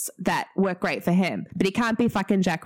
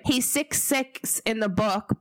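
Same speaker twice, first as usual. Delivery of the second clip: slow New Zealand accent take; 3 semitones higher, slower than usual. Shown as a demonstration. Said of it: "I sounded so Kiwi then".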